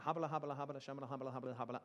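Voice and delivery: nonsense syllables babbled; mock foreign gibberish. Shown as a demonstration. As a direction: babble like an unknown tongue. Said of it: "If I just stood up here and went".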